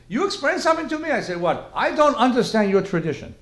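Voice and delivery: put-on light Asian accent. Asian professor pressing the rabbi to explain, light Asian accent. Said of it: "a little bit of an Asian accent".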